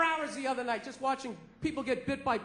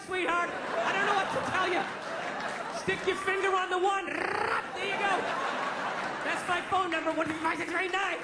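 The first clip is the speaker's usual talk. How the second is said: higher, mock-condescending sweetheart tone; sarcastic retort; 4 semitones higher than usual. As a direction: talk down to the clerk sarcastically. Comic snapping at cashier.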